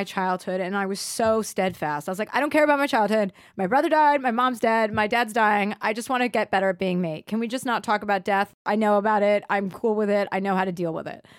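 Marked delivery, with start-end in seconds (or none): 2.3-11.2 heated retort. Retold or imitated. Retold outburst at therapist.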